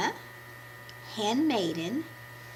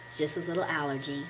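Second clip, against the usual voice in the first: deep cold voice; 5 semitones lower, 5 dB quieter than usual. Real, not acted. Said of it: "I sound really deep".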